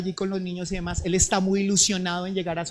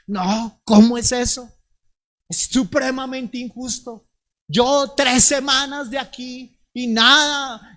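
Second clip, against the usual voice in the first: indignant husband; 2 semitones higher than usual. Acted. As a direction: huff and protest that it is unfair. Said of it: "él empieza a decir". (marido ofendido que reclama en voz alta)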